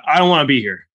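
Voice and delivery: mock old-man grumble; lightly voiced old man. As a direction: imitate a reluctant old man with a hint of Texan. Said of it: "like, thousand-year-old man sits down next to me".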